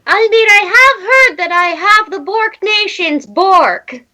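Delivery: high proud orc voice; boasting orc. Acted. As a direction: brag with mock pride.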